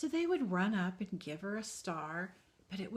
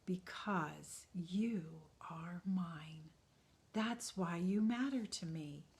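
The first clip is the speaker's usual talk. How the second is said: a hushed slow promise; slow and tender; slower than usual. Acted. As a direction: say it slowly, gently. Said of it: "spoke very slowly".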